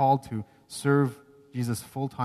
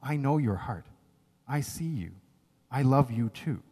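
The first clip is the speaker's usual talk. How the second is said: gentle; 2 semitones lower, 3 dB quieter than usual. Acted. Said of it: "very gently saying".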